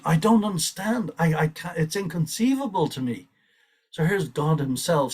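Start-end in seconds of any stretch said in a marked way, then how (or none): 0.0-3.3 higher, marvelling quote; a touch of awed bewilderment; quoting Lord Chaitanya. Retold or imitated. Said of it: "Lord Chaitanya himself is saying".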